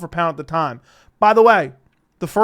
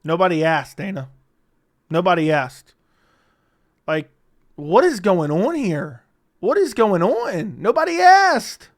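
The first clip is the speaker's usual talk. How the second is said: exasperated. Real, not acted. Exasperated reply.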